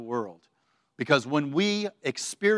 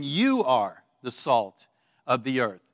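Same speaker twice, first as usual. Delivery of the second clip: slow, with a deliberate lean on "You"; slow quote that sets "You" apart; stress on YOU; 3 semitones lower, slower than usual. Retold or imitated. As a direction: draw out "You", then measure out the rest. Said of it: "the word is emphasized two ways".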